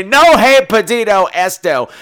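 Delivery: slow, loud Spanish phrase. Retold or imitated. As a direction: say it slowly in stiff Spanish. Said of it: "which means I didn't order this".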